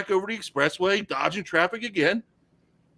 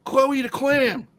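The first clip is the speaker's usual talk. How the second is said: drawn-out confession; 10 semitones higher, much slower than usual. Retold or imitated. Friend confesses the other woman.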